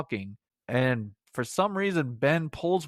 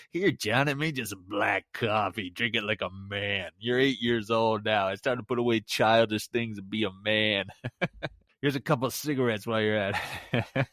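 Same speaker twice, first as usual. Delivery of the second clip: a hint of a hearty old uncle teaching a boy to be a man; 2 semitones lower than usual. Reviewer jokingly plays Uncle Bertie handing a kid coffee, lightly voiced.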